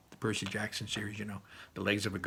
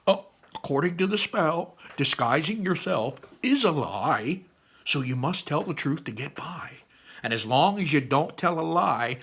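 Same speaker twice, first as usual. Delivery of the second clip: high, loud, emphatic explaining; eager explainer; 5 semitones higher, 5 dB louder than usual. Acted. Barley explaining the spell to Ian, eager. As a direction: lay out the rules with big emphasis.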